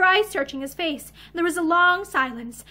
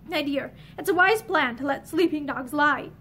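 gentle. Acted. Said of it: "he said more gently".

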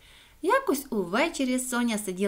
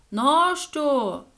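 higher, drawn-out suspicious question; wary echo; 4 semitones higher, 4 dB louder than usual. A narrator's reading. The echo grows suspicious of Соня, wary calling voice. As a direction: call back warily from below. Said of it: "нашорошилася луна".

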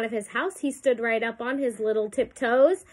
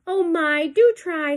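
pleading fly; 5 semitones higher, 4 dB louder, slower than usual. A narrator's reading. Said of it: "said the fly".

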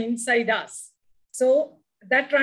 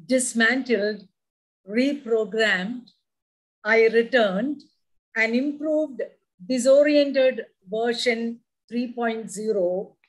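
poem recitation. Acted. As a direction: savour each line of the poem. Poem reading.

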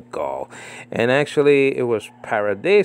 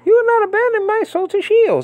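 much higher, louder proclamation; dramatic scripture; 4 dB louder than usual. Real, not acted. Preacher proclaiming Psalm verse, fervent.

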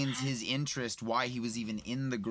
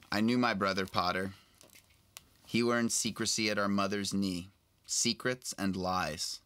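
steady storybook reading, lightly voiced old man; reading a novel aloud. Actor reading Aberforth's lines to a fan host, lightly voiced. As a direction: read the passage to your friend. Reads Deathly Hallows aloud.

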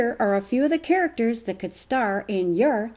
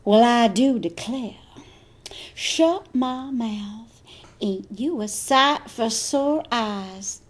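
Southern belle; slower than usual. Acted.

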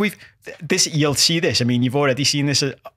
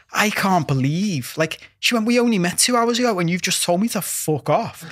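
put-on mortified American girl; 4 semitones higher than usual. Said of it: "She was like".

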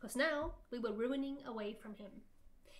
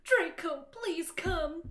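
loud, raised pleading call; 5 semitones higher, 7 dB louder, slower than usual. A narrator's reading. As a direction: call after him, melodramatically. Calling after Draco in story.

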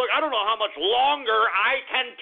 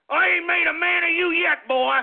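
higher-pitched threatening country father; angry daddy; 6 semitones higher than usual. Pretend. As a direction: threaten the boy like an irate daddy. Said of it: "if I was your daddy".

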